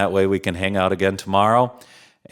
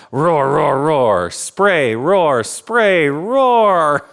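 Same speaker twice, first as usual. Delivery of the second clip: dinosaur roar; 4 semitones higher, 3 dB louder, much slower than usual. Acted. Dinosaur roaring while spraying.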